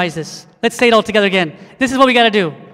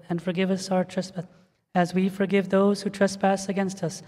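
closing prayer; 3 dB quieter than usual. Acted. Pastor leading the standing church in closing prayer, soft and reverent. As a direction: pray it quietly and humbly.

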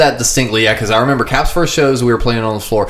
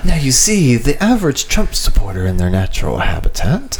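lightly voiced nature documentary narrator; a hint of a hushed wildlife narrator; David Attenborough. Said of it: "Just go full David Attenborough".

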